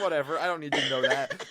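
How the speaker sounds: lightly imitated dismissive tough act, laugh underneath; amused take on a tough front. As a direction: brush it off with mock toughness. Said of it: "acts tough".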